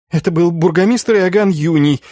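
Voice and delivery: high-pitched, as if learnt by heart; rehearsed quick answer. A narrator's reading. Schulz names the burgomaster to his inquisitors, high rehearsed answer. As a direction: blurt out the memorised name in a high voice. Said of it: "быстро, словно заученно проговорил Шульц".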